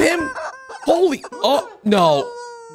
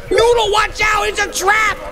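excited warning shout; 9 semitones higher than usual. Real, not acted. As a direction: yell a warning at the screen. Shouting warnings at cartoon cat.

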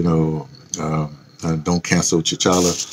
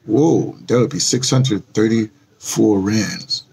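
ordinary talk, nothing marked

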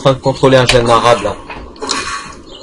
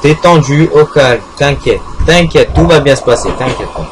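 mock calming. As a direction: coo at the bus like a scared animal. Calming the bus down slowly.

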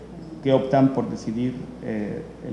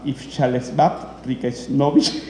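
slowly sounding out an unfamiliar name; careful, effortful pronunciation; slower than usual. Real, not acted. Presenter attempting a hard Ukrainian film title, slow careful pronunciation. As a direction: pick through the foreign name slowly. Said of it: "se me hace difícil pronunciarlo".

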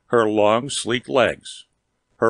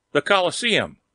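awed exclamation; 6 semitones higher than usual. Acted. Sudden recognition of the arena.

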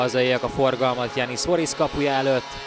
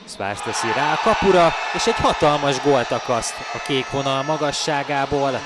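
excited hungarian sports commentary; 3 semitones higher, 4 dB louder than usual. Real, not acted. Goal call in hockey highlights.

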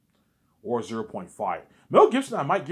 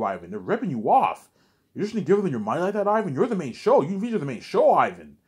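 exasperated Peter; 4 semitones higher, 3 dB louder than usual. Retold or imitated. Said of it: "says, Ivan".

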